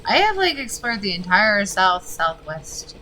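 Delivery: a sudden high jump of real frustration on I have; exasperated outburst. Real, not acted. Gamer fed up after searching the whole map, exasperated. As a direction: blurt it out fed up, then settle.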